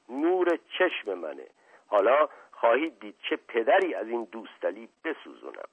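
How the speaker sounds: butter him up, lightly played; smooth flattering prince. Asadollah flattering the butcher, a hint of suave charm.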